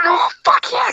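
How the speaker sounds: high-pitched retold crowd cheer. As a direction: imitate an audience screaming in triumph. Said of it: "we were screaming our asses off".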